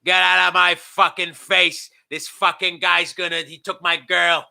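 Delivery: Kevin Sullivan. Retold or imitated. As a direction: order him away, drawn out and menacing. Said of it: "And he goes".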